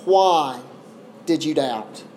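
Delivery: unhurried, with pauses around "why"; gentle reproof. Acted. Jesus to Peter after pulling him out, gently reproving. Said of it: "he gently says to Peter".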